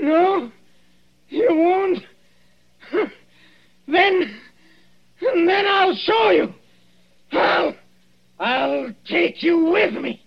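high strained ranting shout; crazed threat. Acted. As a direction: snarl it out, slow and mad. Dying man turns on his killer.

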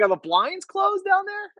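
very high, slow teasing question; mock concern. Guest teasing the gloomy host, high and slow. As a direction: tease like a worried friend, drawn out. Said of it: "I'm like".

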